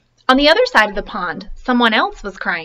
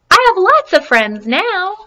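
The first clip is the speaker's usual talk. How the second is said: echo voice; 9 semitones higher, 4 dB louder, slower than usual. Acted. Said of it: "From across the pond, a voice answered him".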